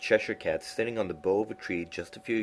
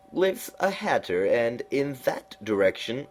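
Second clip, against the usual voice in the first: high, slow, drawn-out cat voice; lofty knowing cat, high and slow; Cheshire Cat voice; 6 semitones higher, 4 dB louder, slower than usual. A narrator's reading. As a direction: purr it out like a sly grinning cat.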